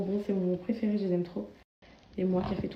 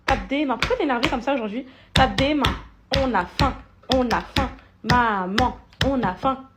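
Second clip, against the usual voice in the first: put-on higher, louder sing-song baby talk; 4 semitones higher, 4 dB louder than usual. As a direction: play along with the little ones. (maman parle aux bébés d'une voix aiguë et chantante)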